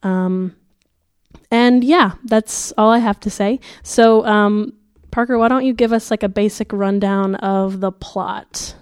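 muffled voice with a sore throat; sick voice. Real, not acted. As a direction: talk like your throat is swollen and sore. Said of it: "if it sounds like I have cotton balls in my mouth".

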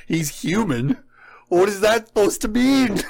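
high-pitched, baffled question; acted-out bewilderment, pitched well up; incredulous. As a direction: react in amused disbelief. Incredulous reaction to the retold quote.

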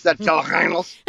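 jalapenos in a lightly faked French accent; a playful stab at French for jalapenos; mock French accent. Friend joking how the French say jalapenos, mock French accent. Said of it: "That's how they say it in French".

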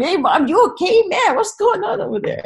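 put-on loud, high-pitched kids calling out to mom; worried kids. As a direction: imitate startled children checking on mom. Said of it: "and they're like".

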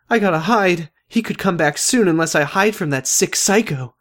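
inner voice. Acted. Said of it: "in my head I said".

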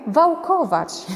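"wałkować" stretched slowly and lifted; drawn out reveal. Shown as a demonstration. Teacher stretching "wałkować" to surprise the class. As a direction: linger on "wałkować" like a punchline.

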